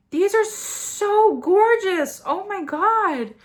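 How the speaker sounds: gasp, then high and drawn out; awestruck gushing. Real, not acted. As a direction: gush slowly, stretching SO. Stunned by gorgeous swatches.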